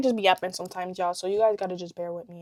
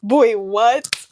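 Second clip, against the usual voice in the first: surprised; 2 semitones higher, 9 dB louder than usual. Real, not acted. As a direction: react in disbelief.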